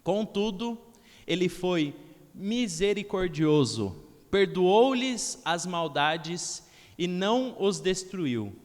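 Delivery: slow, solemn Bible reading; scripture reading. Acted. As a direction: read the verse slowly and reverently. Reads Psalm 78 aloud. (leitura bíblica lenta e solene)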